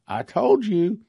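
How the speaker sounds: vindicated repeat; emphatic I told you. Real, not acted. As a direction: hit told hard the second time.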